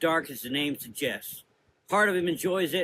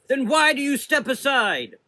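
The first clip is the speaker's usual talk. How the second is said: higher, louder rebuking shout; stern shout; 12 semitones higher, 8 dB louder than usual. A narrator's reading. Mother Azra rebuking the sisters, shouting. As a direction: rebuke them loudly. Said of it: "Mother Azra shouted".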